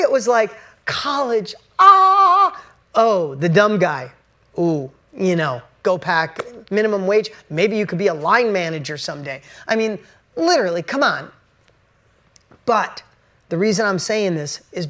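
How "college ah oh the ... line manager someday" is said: mocking counselor.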